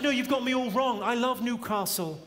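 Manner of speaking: protesting. Acted.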